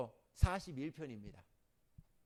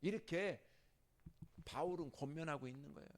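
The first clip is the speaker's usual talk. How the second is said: normal talking voice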